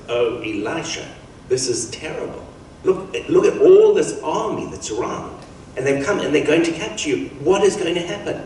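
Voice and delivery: mildly hammed-up panicked servant, rising in pitch; acted alarm. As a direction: blurt it out like a worried servant. Servant panics at surrounding army.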